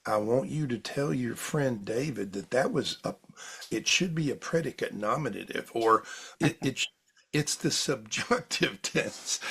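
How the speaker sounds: lightly voiced southern mother correcting grammar; a touch of southern, fondly mimicked; little southern voice. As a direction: imitate Mom's gentle correction with a hint of a southern accent. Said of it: "I'll hear this little southern voice".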